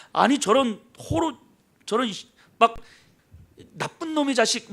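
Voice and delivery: acted angry outburst, sputtering in broken bursts; 화내는 형. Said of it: "막 화를 내는 거예요". (화가 나서 말을 더듬듯 내뱉는 목소리)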